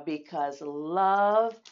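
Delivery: gentle mother's voice. Acted. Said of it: "said Mama".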